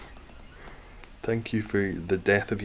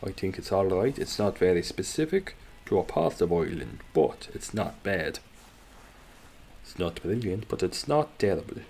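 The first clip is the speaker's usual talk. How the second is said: a passable, non-specific Irish accent. Shown as a demonstration. Streamer showing off an accent to viewers, Irish accent. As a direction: put on a general Irish accent. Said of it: "My Irish one, I think, is fine".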